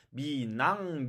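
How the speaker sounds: 미낭 slow, the n carried over and no h; linked reading. Shown as a demonstration. Teacher explaining Korean liaison, linked reading. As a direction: stretch 미낭 to show the missing h. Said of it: "연음되어서 이어 읽기가 되어서".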